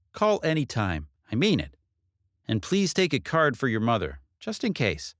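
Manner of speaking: lightly voiced detective, kindly insistent. Detective handing Katie her card, lightly voiced. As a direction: press the offer, sincerely.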